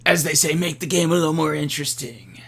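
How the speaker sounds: lightly put-on smooth gambler voice; a hint of a sly bettor; smooth sly gambler drawl. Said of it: "that's my gambler voice".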